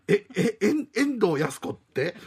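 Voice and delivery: laughing confused stammer; laughing disbelief. Acted. Tenant baffled by the landlady's mix-up, laughing.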